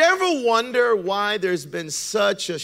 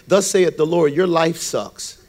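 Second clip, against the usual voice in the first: mock prophet; 4 dB louder than usual. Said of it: "you've never heard a prophet walk up to you".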